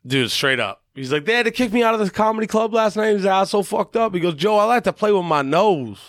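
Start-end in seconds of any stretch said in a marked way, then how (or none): 1.2-3.1 a singer. Retold or imitated. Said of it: "Impersonating him?". 3.3-4.1 a singer. Retold or imitated. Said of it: "Impersonating him?". 4.3-6.0 mock Southern singer's confession; a singer. Singer confessing to Joe on his show, mock Southern accent. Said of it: "Impersonating him?".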